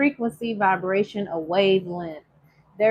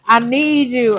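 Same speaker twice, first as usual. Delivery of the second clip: laughing; 3 dB louder, slower than usual. Real, not acted. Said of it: "I don't even know what I was singing".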